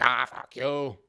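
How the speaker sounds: put-on light Russian accent, dismissive. Ayn Rand brushing off the booing audience, in a lightly put-on Russian accent. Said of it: "in a Russian accent".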